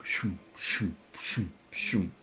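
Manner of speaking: soft, low shoom noises; imitated whoosh. Game master showing players dust swirling up, imitated whooshes. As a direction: voice little whooshes, each one falling.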